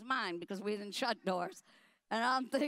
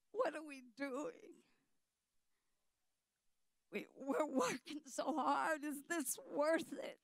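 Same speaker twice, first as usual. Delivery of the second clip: 1 hushed inner thought; 3 semitones higher, 6 dB quieter than usual. Retold or imitated. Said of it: "my only thought was".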